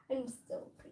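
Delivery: talking with gum in mouth; chewing while talking; mouth full. Real, not acted. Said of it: "Do you have gum in your mouth?".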